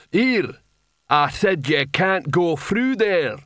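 loud, lumbering troll shout; thick trollish voice. A narrator's reading. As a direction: bellow it thickly, like a troll guarding the stairs. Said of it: "came a thick, trollish voice".

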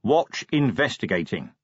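slow headline reading; measured, word-by-word headline; reading aloud. A narrator's reading. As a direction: read out the second headline deliberately. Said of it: "Vimes read".

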